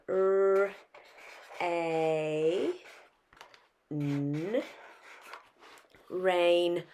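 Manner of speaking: teacher breaking "rainbow" into sounds; sounding out. Shown as a demonstration. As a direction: spell "rain" as R, A, N before "rainbow". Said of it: "break that word down".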